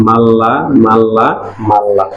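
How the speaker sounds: "মাল্লা" said slowly with a doubled l; ধীরে "মাল্লা" দ্বিত্ব ল টেনে বলা; slow demonstration. Shown as a demonstration. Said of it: "তাহলে এটাও কাটা". (ধীরে ধীরে "মাল্লা" দেখিয়ে উচ্চারণ)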